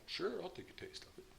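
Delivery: high, unvoiced eager reply; tossed-off yes to the offered glass; mock eager yes. New friend offers wine, he answers in a high airy eager voice.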